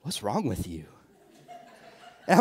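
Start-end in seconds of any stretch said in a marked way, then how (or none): 0.0-0.9 low, softer, calm and unbothered; ice in her veins. Retold or imitated. Wife calmly questioning her panicking husband, cool and soft. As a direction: ask it coolly, totally unshaken. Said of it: "like, ice in her veins".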